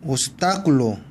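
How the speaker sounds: 오스타클로 with the stress on 타. Shown as a demonstration. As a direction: hit the accented 타 in 오스타클로. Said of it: "이쪽에 무조건 강하게 읽어주고요". (오스타클로의 '타'에 강세)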